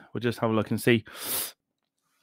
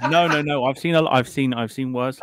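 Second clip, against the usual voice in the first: mouth on fire; 2 semitones higher, 5 dB louder than usual. Real, not acted. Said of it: "I'm also doing this while my mouth is on fire".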